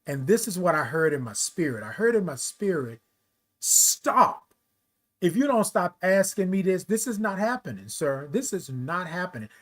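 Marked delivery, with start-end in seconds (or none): 3.6-9.5 lightly voiced divine command, higher; a hint of a commanding heavenly voice; voice of God. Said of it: "I'm talking like this with y'all, but this is how it was coming through".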